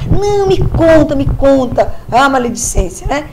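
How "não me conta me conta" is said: eager pleading. Retold or imitated.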